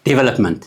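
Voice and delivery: "ዲቨሎፕመንት" pressed on "ዲ", the first syllable; stress on first syllable. Shown as a demonstration. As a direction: hit "ዲ" hard in "ዲቨሎፕመንት". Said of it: "ኣብ ዲ ፀቒጥካ ተድምፅ". ("ዲቨሎፕመንት" ኣብ "ዲ" ፀቒጥካ)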